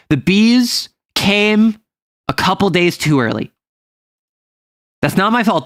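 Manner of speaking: usual speaking voice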